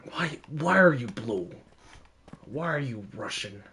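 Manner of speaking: lightly put-on Russian accent. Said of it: "why did I pull out the Russian".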